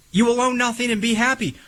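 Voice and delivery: high, fast sneering imitation of the Klaus Schwab quote; mock Klaus Schwab quote, no German accent; mock villain quote. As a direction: ham up the villain's line with a sneer. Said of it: "as Klaus Schwab would say".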